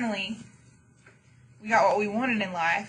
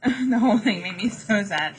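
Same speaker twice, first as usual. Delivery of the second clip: laughing through it. Real, not acted. Laughing at her own mock sadness.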